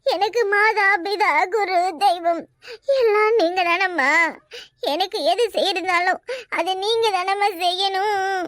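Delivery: slow, theatrical tearful devotion; milk it with put-on sobs; feigned weeping. Woman calling sister-in-law her mother and god, mock-tearful pleading.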